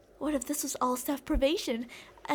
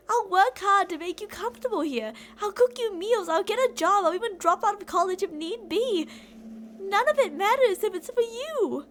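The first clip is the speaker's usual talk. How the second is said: rising obsessive fervor; 3 semitones higher, 4 dB louder than usual. Acted. Obsessive vows to kidnapped listener.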